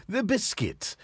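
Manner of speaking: a funny sing-song reading of a name; odd silly tone. Pretend. Host reading viewer names in a playful silly tone. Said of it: "I did it in that tone".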